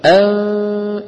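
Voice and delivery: أن with long nasal hum; teacher's ghunna demo; held nasal ghunna. Shown as a demonstration. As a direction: sustain the nasal sound of أن. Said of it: "مخرج النون".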